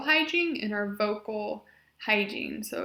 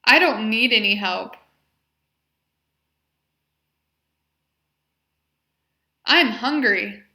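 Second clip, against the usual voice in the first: each phrase spoken much louder and clearly; modeled phrases; 2 semitones higher, 10 dB louder than usual. Shown as a demonstration. Therapist modeling functional phrases for the patient, loud and clear. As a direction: project every phrase for the patient to copy. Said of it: "So I will say the phrase".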